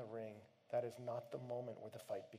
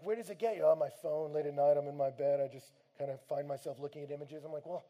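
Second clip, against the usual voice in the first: pressing challenge; 2 semitones higher, 14 dB louder than usual. Retold or imitated. Preacher confronting man about phone.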